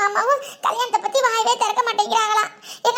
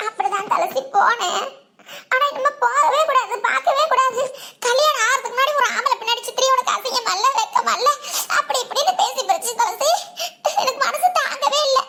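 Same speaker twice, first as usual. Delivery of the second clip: weepy account with small sobs; hurt, crying as she recounts; tearful. Acted. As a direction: lament to a friend through tears. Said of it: "இதுக்கெல்லாமா அழுகுவாங்க?".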